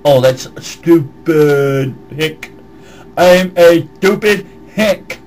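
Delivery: slow dopey hick voice; mock stupid hick. Mocking how he answers the dumb hicks, slow dopey voice. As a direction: drag it out like a slow yokel.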